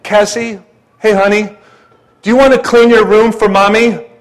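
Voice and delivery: imitating a sweet, pleading mommy; sweet wife. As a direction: gently ask like a sweet mother. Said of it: "my sweet wife, she would go over there".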